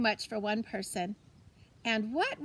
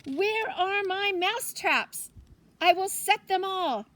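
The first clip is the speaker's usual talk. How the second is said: higher, louder, slow agitated demand; flustered urgency; 7 semitones higher, 4 dB louder, slower than usual. Acted. Grandmother hunting for her mouse traps, flustered. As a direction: fuss about finding the traps. Frantic about the mice.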